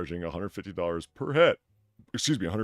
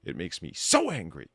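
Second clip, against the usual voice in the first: mock influencer voice; 12 semitones higher, 5 dB louder than usual.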